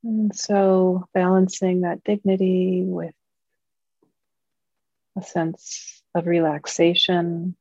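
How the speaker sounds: calm, measured meditation guiding, long pauses between phrases; guided meditation. Acted. Teacher leading Dharma friends into mindfulness practice, calm guided meditation. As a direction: guide a group gently, leaving long silences.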